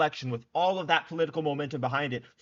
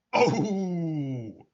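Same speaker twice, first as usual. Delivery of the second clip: delighted high exclamation; gleeful oh; 4 semitones higher, 4 dB louder than usual. Real, not acted. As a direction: relish the hit out loud. Gleeful reaction to big hit.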